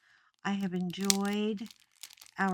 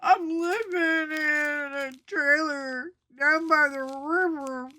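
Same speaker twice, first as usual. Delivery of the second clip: motivational speaker shout; 7 semitones higher, 7 dB louder than usual. Retold or imitated. Quoting Chris Farley motivational speaker.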